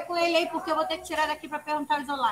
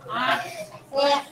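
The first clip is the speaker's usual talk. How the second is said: vowel recitation; 2 semitones lower, much slower than usual. Shown as a demonstration.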